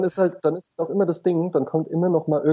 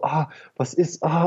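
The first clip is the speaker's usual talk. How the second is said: mock suffering; slower than usual. Mocking sick colleague at window.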